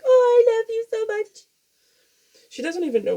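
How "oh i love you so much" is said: very high, louder gushing cat voice; sweet cat voice. Pretend. Owner voicing her affectionate cat, very high and loud. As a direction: gush like a doting pet, very high. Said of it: "other times she's like".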